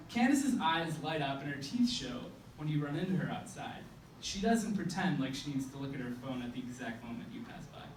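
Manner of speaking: measured spoken-word recital with punched phrase openings; slam poem. Acted.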